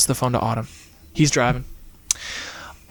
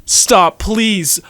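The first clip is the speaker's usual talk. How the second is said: mild pleading scream; 7 semitones higher than usual. A narrator's reading. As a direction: beg him to stop, lightly scared. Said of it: "Autumn screamed".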